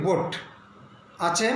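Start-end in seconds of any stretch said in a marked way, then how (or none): 0.1-0.3 বোট said straight, o not narrowed; straight pronunciation. Shown as a demonstration. Teacher explains boat, straight vowel in বোট. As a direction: keep the vowel of বোট even and unsqueezed. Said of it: "স্ট্রেটলি".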